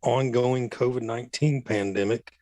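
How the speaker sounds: buzzy, tinny voice; like through a cheap earpiece; metallic voice filter. Real, not acted. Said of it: "There's a buzzy, tinny voice".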